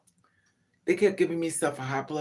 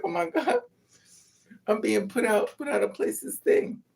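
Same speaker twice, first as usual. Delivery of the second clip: mock alarm; 8 semitones higher than usual. Mock alarm at being thrown out.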